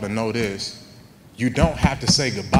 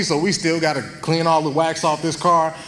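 worked-up retelling; 7 semitones higher, 6 dB louder than usual. Retold or imitated. Exasperated retelling continues.

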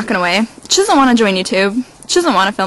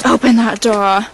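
a slow, commanding open that door; bossy dog voice. Pretend. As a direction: demand it like an impatient dog. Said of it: "Olivia's saying".

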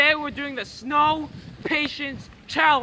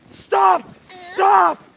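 shout; 3 semitones higher than usual. Real, not acted. Snow thrown at him.

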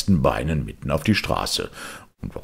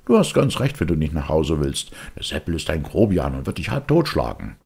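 bystander; 2 semitones higher, faster than usual. Acted. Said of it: "meinte einer".

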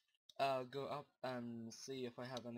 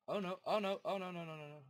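panicked; 4 semitones higher, 4 dB louder, faster than usual. Real, not acted. Monsters closing in.

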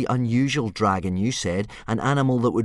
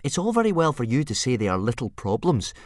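cross and loud, much higher; crossly; 9 semitones higher, 8 dB louder than usual. Acted. Hiccup to Old Wrinkly, crossly and loud. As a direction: snap back in frustration. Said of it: "said Hiccup crossly".

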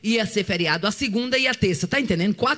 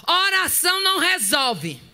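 scornful teacher; 5 semitones higher, slower than usual. Retold or imitated. Teacher dismissing prayer.

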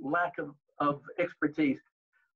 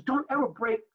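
retold scolding, pitched higher; mild mock telling-off, sharp and raised; mad director; 5 semitones higher than usual. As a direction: director scolding an actor who stopped mid-take. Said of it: "That's when Samuel got mad at me".

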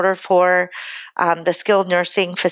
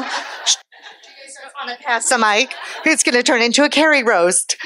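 laughing; 5 semitones higher than usual. Real, not acted. Speaker laughing as the audience teases her, higher. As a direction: laugh it off while asking.

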